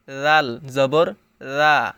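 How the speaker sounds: রা said lightly, soft onset. Shown as a demonstration. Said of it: "নরম হবে।".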